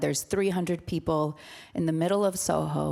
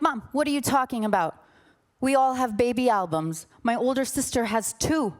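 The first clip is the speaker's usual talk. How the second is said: indignant daughter; 5 semitones higher than usual. Retold or imitated. Retold quarrel with her mother.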